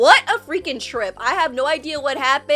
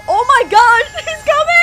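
high, loud laughing panic as he's chased; laughing excited shriek; 9 semitones higher, 6 dB louder than usual. Real, not acted. Reacting to the chase, a laughing high squeal.

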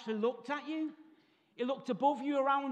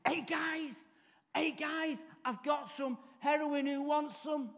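higher, eager offer; lightly voiced lad calling to mates; excited mate; 4 semitones higher, slower than usual. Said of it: "Huey ... comes walking in".

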